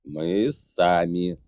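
slow, clipped, firm refusal; curt and rough. Acted. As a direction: bite off each word coldly. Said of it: "грубо отчеканил Конор".

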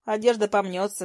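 usual speaking voice

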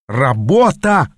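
a touch of a yell on «Работа!», slow. Acted. Apprentice hearing there's work ahead, mild mock yell. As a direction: stretch out «Работа» in mild dismay. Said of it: "завопил я".

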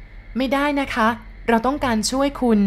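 high, slow, earnest plea; wife pleading urgently with a lost friend. Acted. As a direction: beg him not to give up.

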